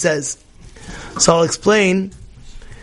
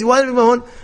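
higher-pitched mock complaint; worked up; 5 semitones higher, much faster than usual. Imagined friend stewing over a missed call, mock agitation. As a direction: act out someone getting worked up. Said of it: "So you go crazy".

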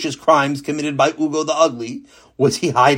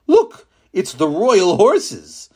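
man's voice; 4 semitones higher, 3 dB louder, much slower than usual. Acted. Husband points at horses.

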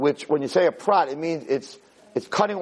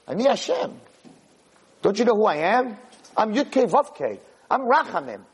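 higher-pitched, insistent retold rebuke; rebuking; 4 semitones higher than usual. God reminds a doubting Moshe who He is, rebuking. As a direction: assert who you are to a doubter.

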